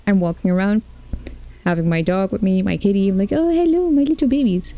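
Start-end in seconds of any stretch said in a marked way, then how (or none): 3.3-4.7 high, tender cooing; cooing baby talk. Retold or imitated. Player greeting her dog and cat, high cooing. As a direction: coo at your pets.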